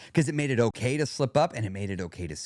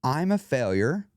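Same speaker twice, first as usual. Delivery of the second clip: slow, definitive absolute; absolute statement. Shown as a demonstration. Leading listeners after a countdown, absolute statement. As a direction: state it slowly as a verdict. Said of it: "Do you feel the difference?".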